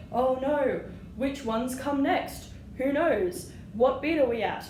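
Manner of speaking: half-playful mock alarm; mock panic. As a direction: act out being lost among the quavers. Teacher acts a lost player.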